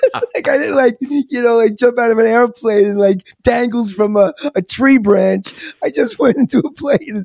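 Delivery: high-pitched comic protest, amused; Bill Burr. Retold or imitated. Retelling a comedian's absurd rescue riff, mock indignant. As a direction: riff indignantly, on the edge of laughing. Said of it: "there's this great comedian, Bill Burr".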